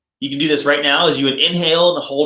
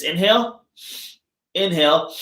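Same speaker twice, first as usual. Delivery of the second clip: demo breaths; 4 semitones higher than usual. Shown as a demonstration. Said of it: "So I'll do it with you".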